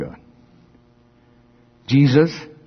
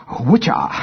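whip sound. Retold or imitated. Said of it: "however you do a whip sound".

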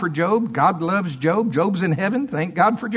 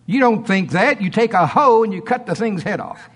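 raised, emphatic preaching; 5 semitones higher, 3 dB louder than usual. Real, not acted. Preacher urging church to run sickness off, emphatic preaching. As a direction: punch out the instruction to fight.

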